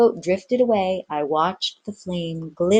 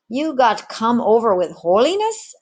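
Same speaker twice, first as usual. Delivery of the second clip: contemptuous; 6 semitones higher, 4 dB louder than usual. Acted. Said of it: "asked One-Armed Ginger contemptuously".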